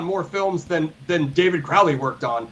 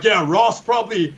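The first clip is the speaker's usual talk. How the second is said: annoyed laugh. Retold or imitated. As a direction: sneer it with a fake ha ha ha. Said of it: "And they were like".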